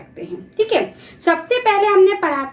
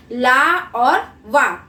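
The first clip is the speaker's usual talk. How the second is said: slow syllable demo; much slower than usual. Shown as a demonstration. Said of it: "जैसे बु".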